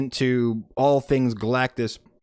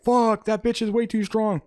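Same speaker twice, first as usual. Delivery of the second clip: audience echo; 8 semitones higher than usual. Retold or imitated. Audience reacting to Sue's strength, mock-amazed exclamation. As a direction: echo the complaint high and quicker. Audience echoes the villain's line.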